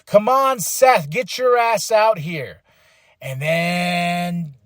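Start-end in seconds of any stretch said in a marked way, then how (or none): 0.1-2.6 retold angry callout, a little higher; mild mock anger, calling him out. Punk demanding Seth come out, mildly angry. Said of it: "He's angry".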